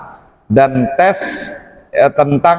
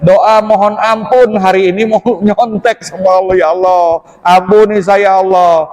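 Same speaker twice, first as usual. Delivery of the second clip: mock prayer plea; 4 semitones higher than usual. Student begging God's pardon before cheating, mock prayer plea. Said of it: "Ntar lu, gua doa dulu".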